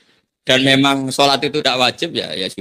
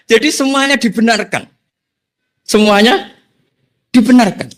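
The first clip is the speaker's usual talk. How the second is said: high, louder laughing exclamation; 10 semitones higher, 4 dB louder than usual. Real, not acted. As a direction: burst out laughing as he delivers the moral. Laughing punchline of the story.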